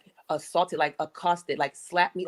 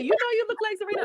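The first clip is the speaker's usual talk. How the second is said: 1 mocking others; faster than usual. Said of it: "people would say".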